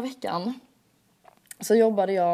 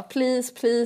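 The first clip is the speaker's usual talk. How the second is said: pleading; 5 semitones higher than usual. Retold or imitated. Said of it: "Jag bara".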